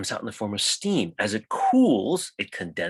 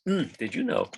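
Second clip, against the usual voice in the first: talking through hiccups; hiccuping between words. Real, not acted. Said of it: "now I have the hiccups".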